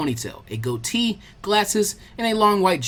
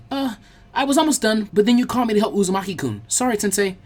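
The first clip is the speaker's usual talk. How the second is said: put-on higher, nervous girl's voice; flustered girl; 5 semitones higher than usual. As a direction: excuse yourself to the teacher. Shiho caught slacking.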